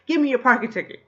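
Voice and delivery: high, loud mock robber's demand; shouted hold-up demand. Annie robbing a couple of their ticket, shouted demand. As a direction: yell it like a comic stick-up. Fake-gun hold-up, acted out.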